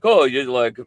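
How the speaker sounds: high, loud mock American voice. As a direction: imitate Americans doing a fake Aussie line. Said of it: "they're like".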